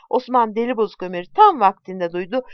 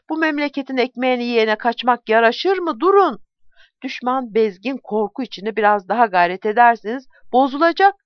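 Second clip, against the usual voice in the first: shouting at the soldiers; 4 semitones higher than usual. Acted. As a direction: shame the fleeing men into turning back. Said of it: "sesi yettiğince bağırmaya başladı".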